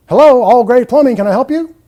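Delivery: loud, rushed greeting; unscripted phone answer. Shown as a demonstration. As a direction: answer the phone carelessly and loudly. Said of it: "there's no script in place".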